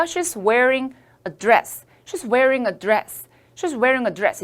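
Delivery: She's wearing a dress를 아주 천천히 또박또박; slow model reading. Shown as a demonstration. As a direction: read it slowly for students to repeat. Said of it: "이럴 때 저를 묘사해요". (학생들이 따라 하도록 천천히 읽는 예문)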